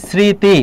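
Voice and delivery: স্মৃতি said 'sriti', with a clear s; দন্ত্য স উচ্চারণ. Shown as a demonstration. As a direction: begin স্মৃতি with a hissed s, not sh. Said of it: "স্মৃতি এখানে সয়ের মতো উচ্চারণ হচ্ছে". (স্মৃতি-র শুরুতে স্পষ্ট দন্ত্য স)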